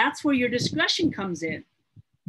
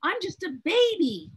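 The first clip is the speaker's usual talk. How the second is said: humble prayer to the Lord; 6 semitones higher than usual. Retold or imitated. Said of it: "I said".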